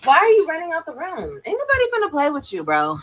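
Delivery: high yelled call after him; yelling across the room. Real, not acted. Calls after child leaving room.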